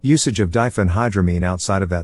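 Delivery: synthetic text-to-speech robot voice. Acted. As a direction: read it like a computer robot voice. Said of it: "this robot voice encapsulating my personality".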